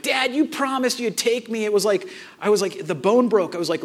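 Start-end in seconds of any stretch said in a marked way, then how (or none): 0.0-1.6 higher, lightly mocked child's complaint; demanding kid. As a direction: imitate a kid holding dad to a promise. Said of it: "he wasn't like".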